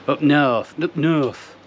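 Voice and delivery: a deliberately poor northern drawl on "north"; jokey fake northern accent; bad northern English accent. Shown as a demonstration. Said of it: "That was really bad accent".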